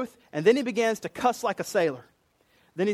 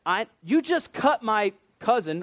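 higher, slow, pointed accusation; indignant accusation; 4 semitones higher, 3 dB louder than usual. Retold or imitated. Relative of Malchus confronting Peter, indignant accusation. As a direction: act out an affronted relative.

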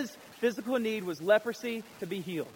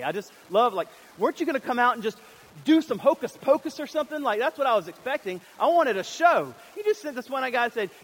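higher, louder, faster mocking rant; mock excitement; 6 semitones higher, 6 dB louder than usual. Preacher mocking Naaman's wish for a show, high and loud. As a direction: ham up the demand for a show.

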